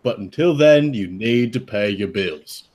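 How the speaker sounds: lightly put-on British accent as the uncle. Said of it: "if you guys do the accent".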